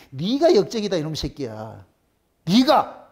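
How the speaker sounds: dropped low, growled insult; a gruff retort to Ahab; mock insult. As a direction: throw the insult back at the king. Elijah insults Ahab back.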